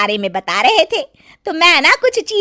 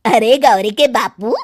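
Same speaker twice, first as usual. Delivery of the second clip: a lower, prying village auntie; nosy old aunt; 3 semitones lower than usual. Acted. Kaki to Gauri's father, low and prying. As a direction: fish for gossip with a sly tone. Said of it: "Gauri के बाप से पूछतारी".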